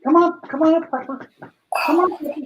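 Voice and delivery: calling the dog. Real, not acted.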